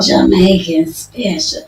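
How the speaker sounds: Jamaican accent. Shown as a demonstration. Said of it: "You gotta say it with the accent".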